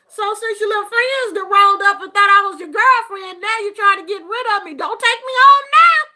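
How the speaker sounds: high, loud, rushed complaint; mock protest. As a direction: scold him in playful protest. Retold protest to son.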